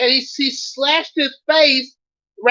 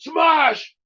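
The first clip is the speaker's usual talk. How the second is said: smashing critic shouting; 3 semitones higher, slower than usual. Acted. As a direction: yell each smash like a brute hero. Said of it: "He just goes smashing every critic".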